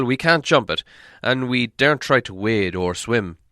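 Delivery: put-on a proud old dwarf grumbling at the distance; old dwarf leader. Dwarf leader to the hobbit, loud and gruff.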